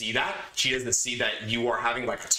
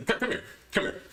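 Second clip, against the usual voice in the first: hushed urgent come here, higher; urgent whisper; 11 semitones higher, faster than usual. Retold or imitated. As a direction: whisper it so nobody else hears. Pulling rival aside to talk.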